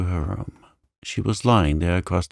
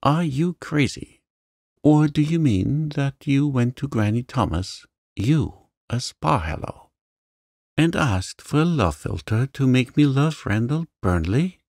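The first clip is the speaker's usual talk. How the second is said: raised, higher angry outburst; angry cry; 7 semitones higher than usual. A narrator's reading. Avery rounds on Janet in anger, higher indignant cry. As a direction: lash out in angry disbelief. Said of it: "she cried".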